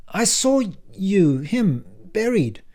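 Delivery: slow breathless whisper of disbelief; shaken whisper. Acted. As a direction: barely get the words out.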